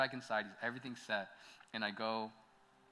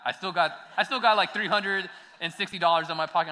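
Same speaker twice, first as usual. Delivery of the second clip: laughing; 5 semitones higher, 10 dB louder than usual. Real, not acted. Laughing about cash he had.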